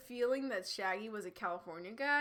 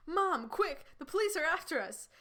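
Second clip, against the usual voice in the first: higher-pitched, urgent Shaggy; frazzled exclamation; 7 semitones higher, 3 dB louder than usual. Acted. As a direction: call out to mom in a mock panic. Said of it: "Shaggy exclaimed, obviously frazzled".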